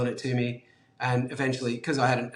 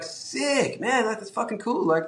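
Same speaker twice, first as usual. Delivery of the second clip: put-on excited shop kid; 8 semitones higher than usual. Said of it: "And he'd be like".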